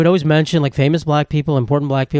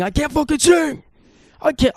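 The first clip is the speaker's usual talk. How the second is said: much higher, strained mock singing of the title; mock belted song title; 12 semitones higher than usual. Podcaster jokingly belts his friend's song title, much higher. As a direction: belt the song title way up high like a cracking singer. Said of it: "track on the album... called I Can't Fucking Sing".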